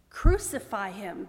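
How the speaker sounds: loud, drawn-out narrated shout; crowd's shout. A narrator's reading. Crowd demands crucifixion of Pilate, shouting. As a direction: call it out slowly and forcefully. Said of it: "they shouted".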